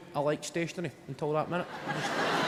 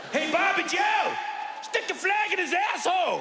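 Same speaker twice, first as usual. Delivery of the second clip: put-on high, hollering good-ol'-boy yell; rowdy American soldier; 12 semitones higher than usual. Navy seal yelling to his buddy on the boat. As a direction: whoop it up like a drunk sailor at a party. Imagined navy seals partying on ship.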